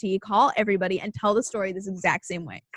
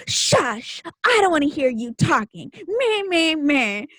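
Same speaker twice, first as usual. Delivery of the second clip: mocking kids; 4 semitones higher, slower than usual. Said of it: "all the other kids start going like".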